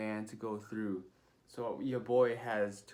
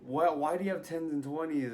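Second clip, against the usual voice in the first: surprised; 6 semitones higher, 5 dB louder than usual. Retold or imitated. Shocked question about his scores.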